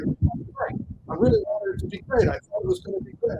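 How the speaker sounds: high, fast, mock-wistful moviegoer; hammed-up longing that sours; mock disappointment. People retelling their disappointment.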